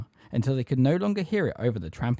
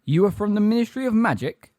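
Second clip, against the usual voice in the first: high, raised-voice query; challenging question; 10 semitones higher, 5 dB louder than usual. A narrator's reading. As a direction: question the official sharply. Centaur questions the captive official.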